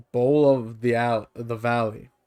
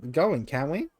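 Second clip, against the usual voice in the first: impatient creature; 5 semitones higher than usual. Acted. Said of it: "it grumbles impatiently".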